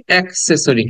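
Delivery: "অ্যাক্সেসরি" with a clear "ae" at the start; "অ্যাক্সেসরি" opening like "ak" in "axe"; common mispronunciation. Shown as a demonstration. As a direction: demonstrate the mistaken "অ্যাক্সেসরি", full "ae" first vowel. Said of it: "কি বলি?".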